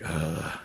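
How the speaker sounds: low, soft grunt of disdain; mock a surly, under-the-breath ugh. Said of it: "giving everybody looks".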